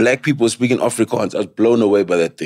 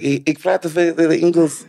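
put-on Afrikaans accent; 5 semitones higher than usual. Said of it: "Then I'm like".

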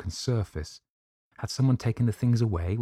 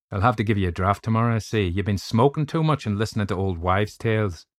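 hint of a hearty Irish doctor, louder; lightly voiced Irish doctor; 2 semitones higher, 4 dB louder than usual. Doctor teasing the frightened narrator, lightly voiced Irish doctor.

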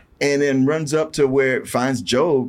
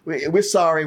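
soldiers backing down; 4 semitones higher than usual. Retold or imitated. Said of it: "And they".

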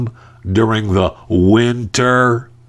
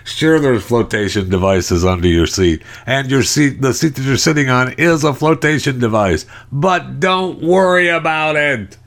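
reassuring pilot; 5 semitones higher than usual. Retold or imitated. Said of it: "We just want them to say".

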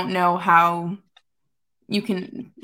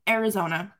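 higher-pitched, worked-up mock protest; exasperated defiance; 4 semitones higher than usual. Player telling the coach to trade them, exasperated and defiant. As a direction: act out a player who is totally fed up.

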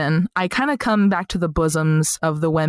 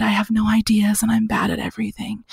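mock gloomy whisper. Friend's gloomy reply, acted.

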